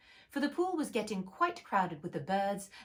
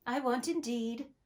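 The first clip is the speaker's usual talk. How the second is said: hurried Alice; 5 semitones higher than usual. Acted. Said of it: "in a great hurry".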